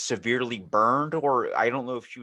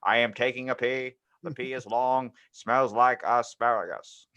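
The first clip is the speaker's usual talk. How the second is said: JFK impression. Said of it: "my J F K impression".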